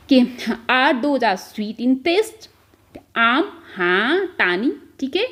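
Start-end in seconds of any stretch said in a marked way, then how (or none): 0.7-2.5 very slow, word by word for the class; slow dictation. Shown as a demonstration. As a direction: spell it out slowly so students can follow. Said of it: "तो क्या बोलेंगे". (धीमे-धीमे, शब्द-दर-शब्द बोलना)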